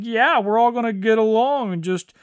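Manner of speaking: fast, sarcastic singsong; mocking everyone getting along; mock pretend harmony. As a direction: rattle it off mockingly. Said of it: "pretend like".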